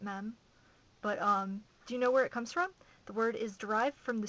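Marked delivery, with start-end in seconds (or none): 0.0-0.4 "mem" with a short e; preferred pronunciation. Shown as a demonstration. Vlogger giving their own pronunciation, "mem" with short e. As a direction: say "mem" to rhyme with hem. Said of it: "I pronounce it mem".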